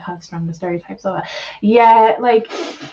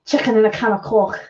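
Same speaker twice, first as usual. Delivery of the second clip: Scouse impression. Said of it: "how to sound like is Scouse".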